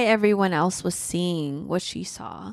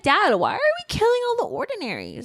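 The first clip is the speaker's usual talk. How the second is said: voicing character; 9 semitones higher, faster than usual.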